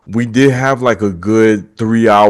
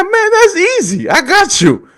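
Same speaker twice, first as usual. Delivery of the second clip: much higher, amused hyped call; excited boss voice; 12 semitones higher than usual. Retold or imitated. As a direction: shout for Isaiah like a pumped-up boss. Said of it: "He said".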